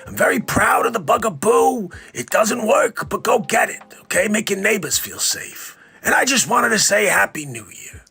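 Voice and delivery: put-on raspy reedy older voice; lightly voiced doctor; a hint of Fauci's rasp; Doctor Fauci impression. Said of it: "it's Doctor Fauci".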